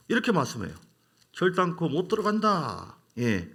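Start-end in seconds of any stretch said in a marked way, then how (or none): 1.3-3.0 slow, mildly angry decree; 하나님의 진노. Acted. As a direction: repeat God's stern verdict, drawing it out. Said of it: "하나님 막 열을 받으세요". (약간 노한 듯 느리고 엄한 선고)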